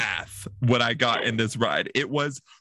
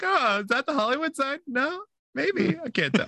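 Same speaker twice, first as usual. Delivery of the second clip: squinting mock wonder; 13 semitones higher than usual. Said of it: "You're like".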